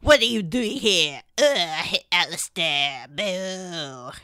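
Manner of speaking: Orlesian woman recoiling in disgust; hammed-up haughty Orlesian accent; Isolde. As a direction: boo him in a theatrical Orlesian voice. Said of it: "That's a pretty good impression".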